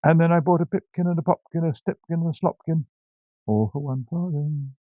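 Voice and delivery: mock him as cheeky mice; rude little mice. A narrator's reading. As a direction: rude mice taunting the cat. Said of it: "added the rude little mice".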